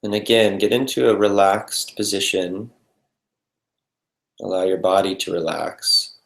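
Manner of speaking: calm, unhurried meditation guidance with long pauses; guided meditation. Real, not acted. Meditation teacher settling the group into breath and body, calm and spacious. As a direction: lead them gently into stillness, leaving space between phrases.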